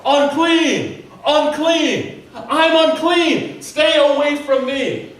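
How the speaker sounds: loud, high warning cry; shouting unclean. Pretend. Leper shouting warning at passers-by, loud high cry. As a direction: yell it out to warn the street. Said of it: "you need to shout".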